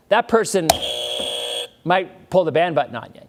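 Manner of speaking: playful rant. Real, not acted. Lively raised rant.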